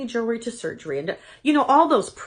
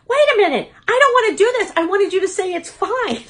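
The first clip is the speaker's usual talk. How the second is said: higher and louder, half-laughing panic; panicked whine; 9 semitones higher, 5 dB louder than usual. Retold or imitated. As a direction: wail like a scared child begging to escape. Pleading with doctor, retold.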